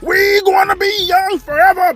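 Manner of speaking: high, slow, mocking shout back; young heckler. Young crowd answering an old man, defiant mock shout. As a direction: holler back like a cocky youngster.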